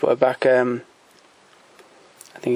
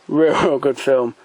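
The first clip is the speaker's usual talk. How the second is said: laughing; slower than usual. Real, not acted. Laughs while praising the film.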